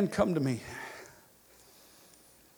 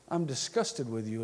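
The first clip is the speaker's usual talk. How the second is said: backhanded; 6 semitones lower, 5 dB quieter than usual. Retold or imitated. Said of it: "a backhanded".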